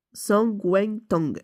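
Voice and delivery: sangwentang said slowly, each syllable drawn out; second unsure attempt. Real, not acted. Vlogger retrying the soup name for viewers, slow and unsure on sangwentang. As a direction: drag out sangwentang carefully, still unsure of it. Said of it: "excusez-moi de la pro".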